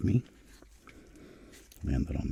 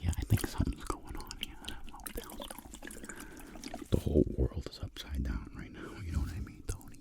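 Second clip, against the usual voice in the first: Frank whisper; 7 dB quieter than usual. Pretend. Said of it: "Frank's like".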